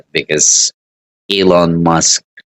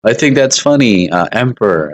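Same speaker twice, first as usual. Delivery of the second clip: mock time traveler; 6 semitones higher than usual. Time traveler joking to the emperor, goofy high voice. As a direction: play the clueless time traveler talking to an emperor. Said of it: "You'd be like".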